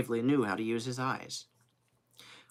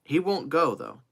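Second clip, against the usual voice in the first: raised pitch, firm falling close; confident assertion; 4 semitones higher, 3 dB louder than usual. Acted. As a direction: state it as a settled matter. First statement, then echoed back.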